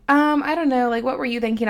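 lightly imitated co-host, pitched a little up; a hint of imitating a friend's unsure reply; Melissa. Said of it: "And she was like".

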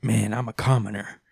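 grumble, then swell into an indignant rant; sulking commoner voice building to outrage; Jack grumbling. Retold or imitated. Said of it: "Jack is in the corner like".

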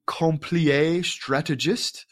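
slow, put-on French accent on the store name; bad French accent. Shown as a demonstration. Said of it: "that's my terrible French accent".

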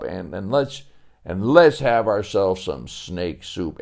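a hint of old-timer cheer; a cook gathering veggies for soup; folksy Sebastian. Sebastian giving orders.

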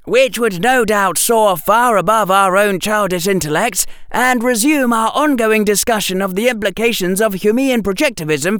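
high, grandiloquent young boy, mock-formal; a child lecturing like a professor; pompous boy. Boy's long pompous speech.

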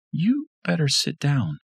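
wife bracing him for bad news; Lisa worried. A narrator's reading. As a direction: warn him carefully.

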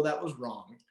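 quietly reasoning parent; calm talking. Retold or imitated. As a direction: re-enact a calm word to a child. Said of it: "I can say calm talking words".

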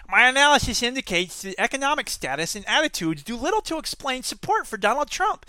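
lightly nasal nerdy voice; nerd voice. Pretend. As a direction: read it like a nerd. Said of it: "so let's do a nerd voice".

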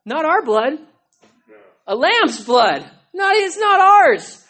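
very loud, forceful preaching; impassioned yelling. Real, not acted. Preacher retelling the cross to his congregation, yelling. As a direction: drive every phrase out at full volume. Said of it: "I'm sorry I'm yelling so much".

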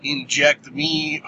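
attempted Russian accent, drawn out slowly; bad Russian accent. Russian woman challenges Hit Girl over the syringe, bad Russian accent. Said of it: "that's a bad accent".

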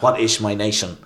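"is" said as "ish", mock stage Irish; Sean Connery-like Irish dialect. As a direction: lightly imitate written stage Irish, "is" becoming "ish". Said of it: "It sounds like Sean Connery".

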